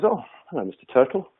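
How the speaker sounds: a hint of a chirpy storybook frog; frog greeting.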